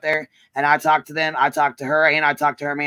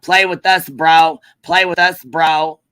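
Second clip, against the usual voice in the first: mock their cocky taunt; slower than usual. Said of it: "they went live talking about".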